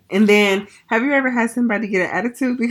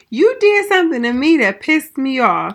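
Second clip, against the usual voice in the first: mild mock scolding; 5 semitones higher, 4 dB louder than usual. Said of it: "And I'm like".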